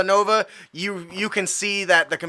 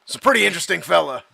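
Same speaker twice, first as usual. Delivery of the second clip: cab driver. Acted. Plays the cab driver telling anecdote.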